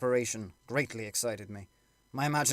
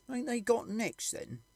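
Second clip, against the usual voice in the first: abrupt soldier; 12 semitones higher, slower than usual. Acted. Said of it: "said a third abruptly".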